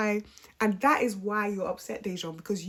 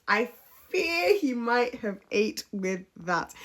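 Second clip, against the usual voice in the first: slow, higher, louder theatrical warning; dramatic mock dread; 4 semitones higher, 5 dB louder, slower than usual. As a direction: stretch out "fear" like a soap-opera prophecy.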